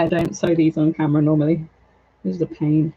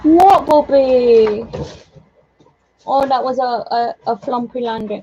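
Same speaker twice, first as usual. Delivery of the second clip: high, loud, slow drawn-out question; pet talk; 3 semitones higher, 3 dB louder than usual. Real, not acted. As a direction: coo a stretched question at the cat. Talking to the cat.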